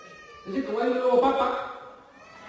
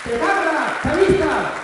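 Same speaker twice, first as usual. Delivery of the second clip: much louder, higher hammed-up yell; mock shouted insult; 5 semitones higher, 8 dB louder, slower than usual. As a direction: bark the insult at him. Manuela yelling insults at him.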